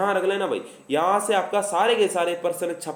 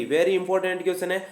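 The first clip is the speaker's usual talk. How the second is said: slow emphatic drawl; much slower than usual. Shown as a demonstration. Teacher's catchphrase again.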